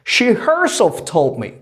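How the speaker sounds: slow, weighted "She herself", falling away after; deliberate stress on "She herself"; emphasis on SHE HERSELF. Shown as a demonstration. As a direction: lean on "She herself" as the teacher's emphatic example. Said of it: "gonna bring emphasis on the word she".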